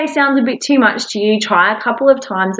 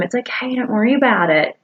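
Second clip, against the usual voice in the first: soft reassurance; 3 dB quieter than usual. Shown as a demonstration. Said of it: "You tell them".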